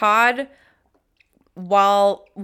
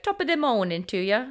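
bad Irish accent; 2 semitones higher, 3 dB quieter than usual. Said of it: "I don't do accents very well".

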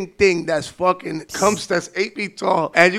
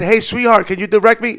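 fake sweet; 3 semitones higher, 5 dB louder than usual. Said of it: "'cause I said".

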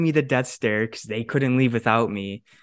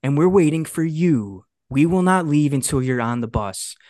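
imitated boss; 4 semitones higher than usual. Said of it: "And he said".

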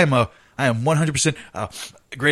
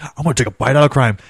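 McGruff impression; 6 dB louder than usual. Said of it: "McGruff being the crime dog".

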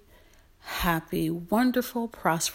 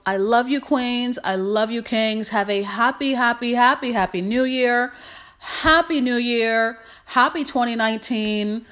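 excited cheer; 4 semitones higher, 5 dB louder than usual. Real, not acted. Cheerful new year greeting to viewers.

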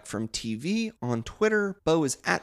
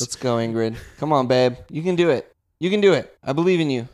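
louder, rising encouragement; cheering on; 5 dB louder, faster than usual. Real, not acted. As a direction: egg her on loudly. Cheering Ingrid up the couch.

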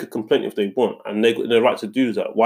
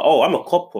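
haughty customer boast; 5 semitones higher than usual. Retold or imitated. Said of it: "she was like".

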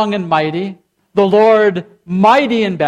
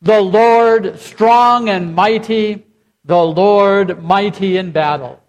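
louder, ringing proclamation with a slow strong and mighty; loud congregational response; slower than usual. Shown as a demonstration. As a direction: lead the room in a full-voiced response.

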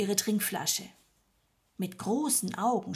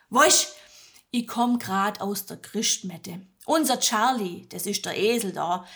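lightly voiced Swabian woman chattering; chatty farm woman; 2 semitones higher, 5 dB louder than usual. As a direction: chat to fill the silence. Magda chats during birth. (Magda plaudert schwäbisch)

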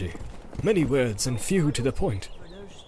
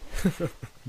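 soft laugh; 5 semitones higher, 6 dB quieter than usual. A narrator's reading. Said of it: "Gandalf laughed".

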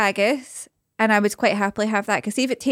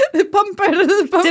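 much higher, laughing and squealing; 8 semitones higher than usual. Real, not acted. Repeating the joke word, high laughing.

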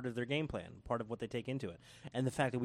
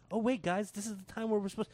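high, excited rallying call ending in a loud shout; rally the crowd to boo, hammed up; the crowd urging each other to boo; mock crowd voice; 9 semitones higher, 5 dB louder than usual. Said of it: "It's like".

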